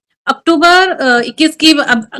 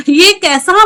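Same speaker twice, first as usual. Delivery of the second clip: shocked laugh; 3 semitones higher, much slower than usual. Real, not acted. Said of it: "मैं एकदम shock रह गई".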